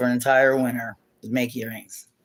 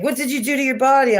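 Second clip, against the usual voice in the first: much higher, hammed-up accusing voice; mock outraged mom; 10 semitones higher, 5 dB louder, faster than usual. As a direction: imitate the mom's swearing shock. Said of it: "or she's like".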